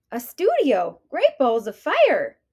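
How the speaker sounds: loud, thrilled outburst; excited. Acted. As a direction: burst out amazed. Goldie amazed at studio.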